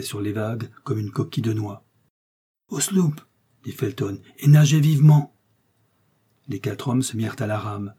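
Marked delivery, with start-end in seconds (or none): 2.7-3.2 raised, higher-pitched command; called-out order. A narrator's reading. Orders rowers to the sloop. 4.4-5.3 loud, raised command to rowers; urgent shouted order. A narrator's reading. Urging the rowers on.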